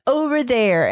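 short and dismissive; curt. Shown as a demonstration. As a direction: brush it off vaguely.

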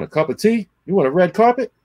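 mock his entitlement; sarcastic mockery. Mocking the brand rep's demands, sarcastic.

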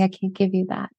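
soft, gentle admission; tender. Retold or imitated. Husband answering his wife's wish for peace, softly tender. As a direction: let it fall quietly and kindly. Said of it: "tenderly and say".

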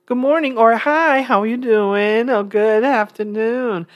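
lightly voiced friendly mom, slowing on the hellos; imitating mom. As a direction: chirp it like a cheerful mom on an elevator. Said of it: "she throws on this big smile and say".

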